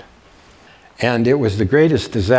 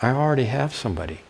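a touch higher, sweet and polite, quick on the middle; very nice voice; 4 semitones higher, 3 dB quieter than usual. Retold or imitated. Student sweetly tells her teacher she already has somebody, nice voice. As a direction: play the polite student gently correcting him. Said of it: "in a very nice voice".

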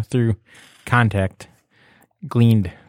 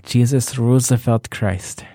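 slow, lightly Scottish exclamation; a hint of a Scottish accent on the oath; slower than usual. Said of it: "you did it in a Scottish accent".

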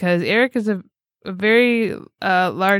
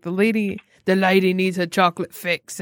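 Simon Beasley voice. Retold or imitated. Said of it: "I did his voice right back to him".

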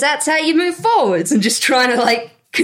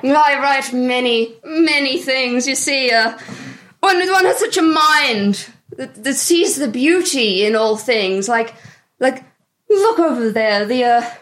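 pretentious artist. Acted. The speaker speaks as character.

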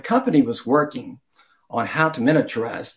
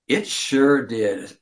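devious; much slower than usual. Acted. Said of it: "with a devious smile".

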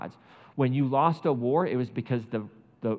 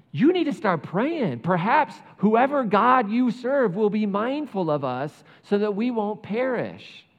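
slow, higher, louder plea to pray; pleading captain; 5 semitones higher, 4 dB louder, slower than usual. Retold or imitated. The pagan captain pleading with Jonah, slow and raised. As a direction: urge him slowly to pray for them. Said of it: "an outsider saying to the insider".

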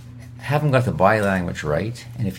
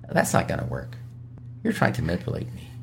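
hushed, quick "caught you" call-out; bluntly expose the manipulation; knowing, confrontational jab; blunt accusation; 3 semitones lower, 4 dB quieter, faster than usual. Shown as a demonstration. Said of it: "not the way to do it".

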